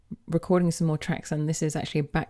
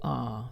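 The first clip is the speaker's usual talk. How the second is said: sung ah; 5 semitones lower, 5 dB quieter than usual. Shown as a demonstration. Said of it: "for example".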